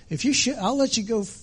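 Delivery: a hint of a gullible bear; eager dumb bear. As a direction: bargain like a dim, eager bear. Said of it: "So he goes".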